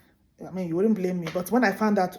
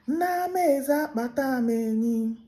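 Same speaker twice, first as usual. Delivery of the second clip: proud announcement; 6 semitones higher, slower than usual. Acted. Tortoise announcing to king.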